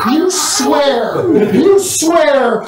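laughing through the words; giggling while narrating. Real, not acted.

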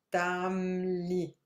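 "ptamli" drawn out slowly as ptam, then li; teacher's slow demo of "ptamli", ptam-li; syllable-by-syllable pronunciation. Shown as a demonstration. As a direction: split "ptamli" after the m, slowly. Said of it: "a bit like this. Pronounce like this".

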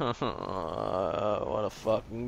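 very slow, stretched-out insult with a laugh; drawn-out scoff. Real, not acted. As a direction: drag every word out in disbelief. Laughing at teammate's mistake.

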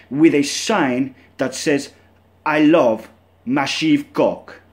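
slow, drawn-out fake Russian accent on "I love Massive Cock"; hammed-up Russian accent, slow. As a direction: spell out the sign in the put-on Russian accent. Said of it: "Not sure how my Russian accent's gonna sound".

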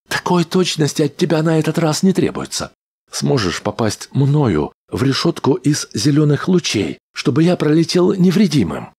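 high, quick little rodent voice; a cheeky mechanical rat; squeaky rat voice. A narrator's reading. Rat character voiced by narrator.

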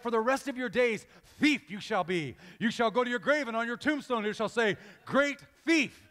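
hammed-up solemn sentencing; mock pronouncement. Father labeling his son for life, mock-solemn decree. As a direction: proclaim it like a mock verdict.

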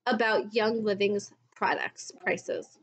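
slow, haughty mock scolding; mock condescending. Vlogger imitating a leader scolding complainers, slow and haughty. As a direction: talk down slowly like an offended leader. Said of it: "she was like".

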